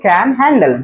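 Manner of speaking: slow, relaxed word-by-word model; unhurried teaching demonstration; soft, slow. Shown as a demonstration. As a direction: say it gently, stretching each word. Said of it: "soft में".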